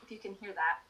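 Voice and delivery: talking over truck noise; over garbage truck. Real, not acted. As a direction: speak up over a passing truck. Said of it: "the garbage truck is going by".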